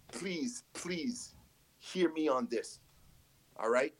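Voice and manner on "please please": whispered menacing please. Acted. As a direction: breathe it out slowly and coldly. Menacing plea in a promo.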